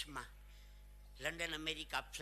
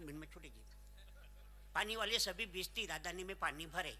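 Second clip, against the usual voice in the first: railway announcer. Retold or imitated. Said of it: "એનું announcement સાંભળજો".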